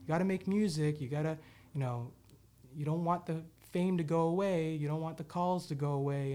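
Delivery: mock the nagging crowd, pushing fast; imitating everybody. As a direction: others pressuring the singer to get back in the studio, mock urgent. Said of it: "and everybody was like".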